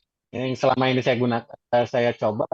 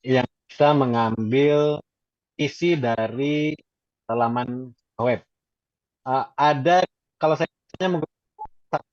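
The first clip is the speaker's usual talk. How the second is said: choppy audio; slower than usual. Real, not acted. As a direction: voice breaking up over a bad connection. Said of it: "suaranya putus-putus".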